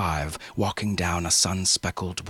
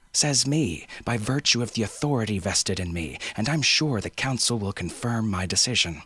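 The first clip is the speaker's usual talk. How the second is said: firm, raised official insistence; assertive authority; 4 semitones higher than usual. Acted. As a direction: pull rank, firmly.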